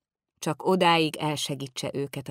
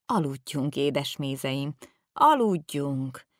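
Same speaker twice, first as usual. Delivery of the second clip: soothing; slower than usual. Acted. Old man soothing the boys.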